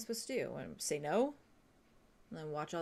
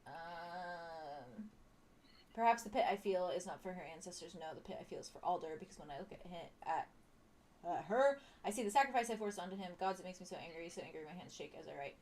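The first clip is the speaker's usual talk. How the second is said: slow wise elder; 5 dB louder than usual. Acted. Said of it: "Read it in Alder's voice".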